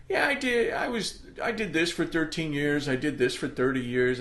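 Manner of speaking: like ticking off your own achievements, pleased; proud recollection. Retold or imitated. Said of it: "I catch myself going".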